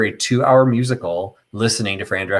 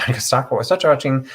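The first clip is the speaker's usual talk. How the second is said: laughing through the words; 4 semitones higher than usual. Real, not acted. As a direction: chuckle while repeating it.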